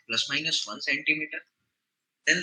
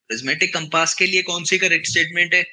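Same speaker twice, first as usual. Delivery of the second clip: the question called out louder; louder, insistent repeat of the question; 6 dB louder than usual. Shown as a demonstration. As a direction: push it out to the class. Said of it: "teacher repeats question louder".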